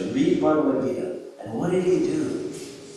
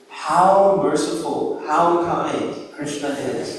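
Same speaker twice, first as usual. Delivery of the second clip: tender wonder; 3 dB louder, much slower than usual. Retold or imitated. Devotee marvels at Krishna's kindness.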